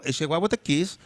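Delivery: put-on a light touch of a Hispanic accent; Hispanic accent imitation. Mimicking the Hispanic lead officer, a light Hispanic accent. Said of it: "this is the accent".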